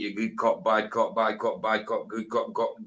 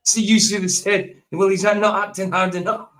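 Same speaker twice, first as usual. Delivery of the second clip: joking comeback; 9 semitones higher, 8 dB louder than usual. Pretend.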